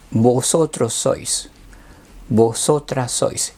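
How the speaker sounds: deliberate, spaced teacher recitation; slow classroom drill; slow conjugation drill. Shown as a demonstration. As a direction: set out each form slowly for learners to repeat.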